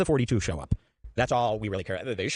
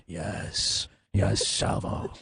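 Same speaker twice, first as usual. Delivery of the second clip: hushed mock yes; 7 semitones lower, much slower than usual.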